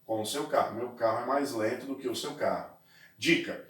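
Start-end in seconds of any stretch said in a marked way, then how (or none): 0.8-2.7 quick quiet recap. Shown as a demonstration. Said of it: "com o que se compara".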